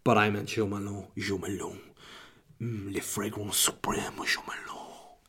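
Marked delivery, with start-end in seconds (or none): 1.2-1.8 put-on low, soft French-accented brand name; hushed French perfume-ad voice. Podcaster showing off foreign voices, French accent. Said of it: "I should do the French accent". 2.6-5.2 slow, whispery French perfume-ad voiceover; French accent. Pretend. Podcaster auditioning as a voiceover guy, French accent. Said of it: "I should do the French accent".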